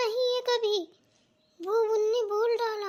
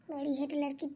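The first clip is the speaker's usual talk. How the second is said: mocking drag; 5 semitones lower, 8 dB quieter, slower than usual. Bahu mocks sister-in-law under breath.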